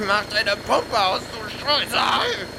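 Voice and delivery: high, squeezed slow insult; pinned and shrieking at him; strained furious yell. Acted. Rival squashed, demanding.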